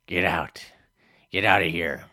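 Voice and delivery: loud, angry neighbor yelling him off the porch; shouting get out. Acted. Neighbor yelling at Hank on doorstep, loud angry shout. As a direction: bark him away from the door.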